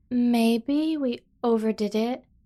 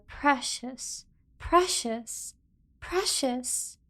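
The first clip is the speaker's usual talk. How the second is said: doting repetition; 3 semitones higher, much slower than usual. Acted. Repeats precious fondly.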